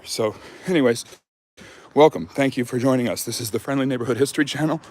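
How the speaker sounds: breathless after a jog; panting lightly between phrases; out of breath. Real, not acted. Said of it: "the reason I'm out of breath is because I just went on a jog".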